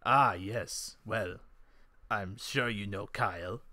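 low-pitched character voice; Kran's voice. Acted. Game master voices Kran replying.

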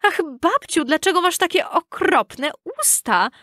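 put-on high, mildly tearful child voice; a touch of crying in a little girl's plea. A narrator's reading. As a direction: pitch it up in anxious near-tears. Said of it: "zawołał czerwony kapturek płacząc".

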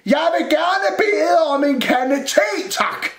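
slow, high, loud holler; shouting. A narrator's reading. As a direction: spell it out slowly at a shout. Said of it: "bliver jeg nødt til at råbe". (råber højt og langsomt)

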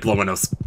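"blow my nose" with a crisp final S; quick, precise "nose" ending "-ss", not Z; mock fussy third-grade teacher on "blow my nose"; over-precise teacher. Shown as a demonstration. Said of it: "also somehow strangely fast at it".

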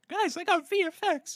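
high, loud mocking imitation; loud, high mock of a friend; imitating a friend. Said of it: "let me do it".

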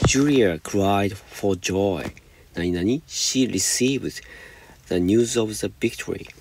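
slow, careful read-aloud of the English sentence; slow example reading. Shown as a demonstration. Teacher reading the example to students, slow and deliberate. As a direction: spell it out slowly for the class.

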